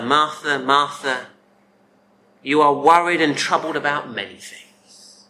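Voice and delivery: mild, unraised reproof; soft gentle rebuke. Acted. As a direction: gently chide a worried friend. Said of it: "such a soft tone to it".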